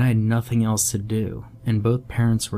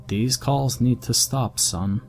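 stern father; 4 semitones higher, slower than usual. Acted. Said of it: "the tone in his voice exactly the same".

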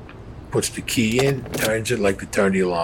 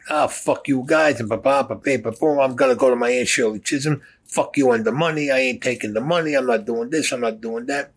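mock angry rant, pitched higher; retold yelling; 4 semitones higher than usual. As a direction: imitate him griping and yelling a bit. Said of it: "He starts yelling at Dominic".

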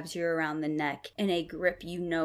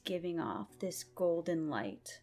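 dramatic scene narration. Acted. GM narrating vision.

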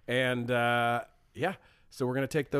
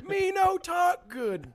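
a hint of dumb caveman voice; caveman talk; 13 semitones higher, slower than usual. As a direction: say it again, slow and broken. Repeat of caveman line.

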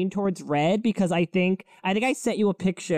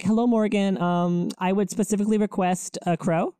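lightly formal, asking politely; mock formal request. Requesting a crow from the goddess in mock formality. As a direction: pretend business formality. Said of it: "I'm gonna be like".

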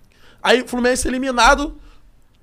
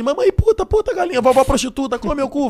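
high, loud blurted swearing like a tic; higher pitched tic outbursts; mock Tourette baby; 6 semitones higher, 3 dB louder than usual. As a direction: play a newborn with Tourette shouting insults. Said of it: "nasceu um Tourette".

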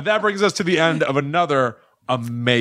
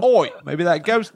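mock Australian accent; 4 semitones higher than usual. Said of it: "That sounded, uh, Australian".

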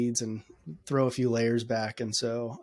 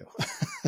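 high burst of laughter; 4 dB quieter than usual. Real, not acted. Laughs at his own remark.

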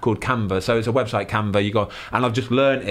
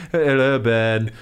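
slow, drawn-out attempt at Northern English; badly faked Northern accent; 2 semitones lower, much slower than usual. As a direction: stretch out a clumsy Northern greeting. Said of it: "Which, which accent was that?".

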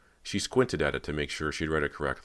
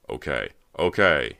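backing off; 8 dB louder than usual. A narrator's reading. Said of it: "he backed off".

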